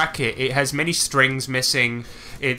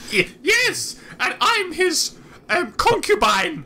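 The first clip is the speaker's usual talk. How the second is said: high tipsy servant voice; drunk butler; slower than usual. Acted. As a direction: blurt it out tipsy and giggly. Drunk butler blurting, laughing.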